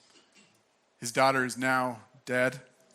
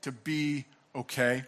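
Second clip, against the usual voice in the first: earnest reassurance. Shown as a demonstration. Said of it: "looks Jairus in the eyes".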